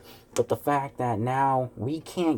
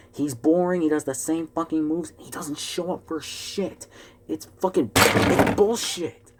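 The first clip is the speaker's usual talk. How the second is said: fan venting, getting more worked up each line; angry rant; 4 semitones higher than usual. Real, not acted. Fan ranting at WWE booking.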